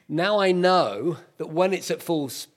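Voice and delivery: breathless after a sprint; out of breath. Real, not acted. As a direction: talk while catching your breath. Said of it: "I'm out of breath".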